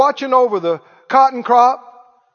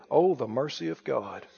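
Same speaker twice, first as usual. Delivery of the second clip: tender awe; 10 semitones lower, 10 dB quieter than usual. Real, not acted. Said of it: "I said, "Oh, the mercy of God".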